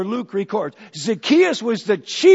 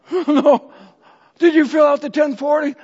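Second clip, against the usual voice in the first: mock alarm; 4 semitones higher than usual. Panicked spouse.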